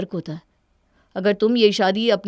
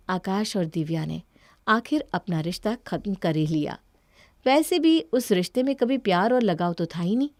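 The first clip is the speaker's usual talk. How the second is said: story narration. A narrator's reading. Narrator telling the listeners about Akash's broken marriage, calm. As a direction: tell it like a sad tale.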